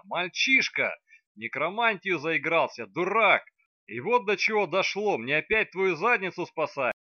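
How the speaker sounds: high, very loud furious yelling. Acted. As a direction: scold him at full volume. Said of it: "завопила в свою очередь она". (кричит в ярости)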